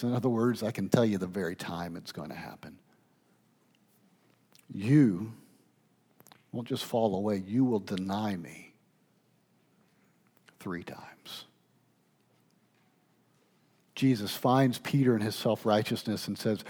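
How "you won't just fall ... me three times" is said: quiet, grave kindness, falling away at the end; kind but emphatic. Retold or imitated. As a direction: lower your voice and let each phrase land gently. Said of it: "he emphatically preaches to Peter in kindness".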